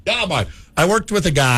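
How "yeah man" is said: higher, softer mock Jamaican; light Jamaican imitation; Jamaican accent. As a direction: echo it in a put-on Jamaican accent. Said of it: "Jamaican would be a fun accent".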